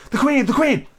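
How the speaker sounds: high, urgent announcement; calling out. A narrator's reading. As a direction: call out a warning across a garden.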